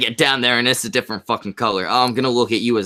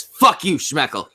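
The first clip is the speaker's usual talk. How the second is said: mock chat voice; 6 semitones higher than usual. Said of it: "the bitching witch says".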